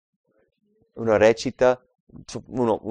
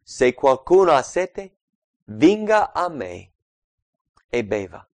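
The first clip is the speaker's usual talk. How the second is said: exclaiming; 5 dB louder than usual. Acted. Preacher voicing Jesus calling out to the thirsty, slow raised exclaiming call. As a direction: cry it out slowly like Jesus calling the crowd. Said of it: "Gesù si alzò in piedi ed esclamò".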